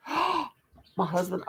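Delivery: gasp, then slow, dragged-out my husband; gasped outrage. Real, not acted. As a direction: drag the words out in mock shock. Gasps at scratched cart.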